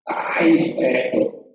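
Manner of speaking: drawn-out whiny imitation; sing-song fake whimpering; mock crying. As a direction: lightly wail a petty grievance. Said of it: "se ponen a llorar".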